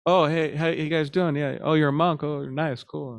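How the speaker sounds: lightly voiced eager passer-by; friendly stranger. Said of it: "and he says".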